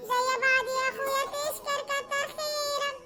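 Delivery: guilt-trip your brother for siding with his wife; sister-in-law voice. Acted. Suad reproaches her brother.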